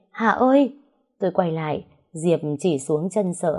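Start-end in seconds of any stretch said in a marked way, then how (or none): 0.1-0.8 high shout calling her friend's name; frightened shout. Acted. Diệp screams for Hà at the lake. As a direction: cry out in sudden fright. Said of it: "chợt Diệp hét lên".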